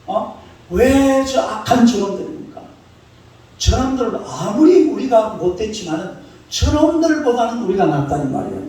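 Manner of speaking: mock indignant protest, slowed on 왜 갈대합니까; the prophet complaining to God in a half-acted indignant voice; prophet arguing with God. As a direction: imitate an angry prophet questioning God. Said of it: "하나님 앞에 따지는 거예요".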